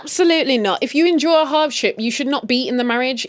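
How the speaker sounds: loud, firm and high; absolutely not, hard; emphatic. Real, not acted. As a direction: lay down the law to the viewer. Emphatic advice.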